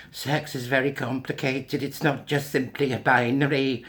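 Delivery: slightly hammed-up, slow mocking recital; mock quote. Vlogger mimicking a doctor's claim, mock quote.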